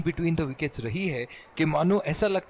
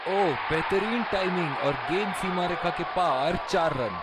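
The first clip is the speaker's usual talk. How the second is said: excited cricket commentary. Acted. Boundary call in live commentary.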